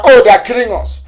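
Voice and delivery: voicing Southern Kaduna's lament as mockery, high and loud; mock wail. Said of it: "Southern Kaduna".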